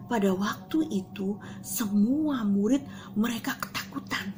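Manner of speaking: hushed whisper; whispered fear. Acted. Teacher tells children the disciples were scared, whispered.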